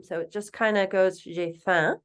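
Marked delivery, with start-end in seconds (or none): 1.2-2.0 J'ai faim with no M, zhay fan; silent M. Shown as a demonstration. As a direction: say faim as fan, nasal, no M sound. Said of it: "we don't really pronounce that M".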